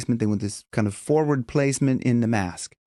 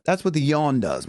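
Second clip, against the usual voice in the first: ordinary delivery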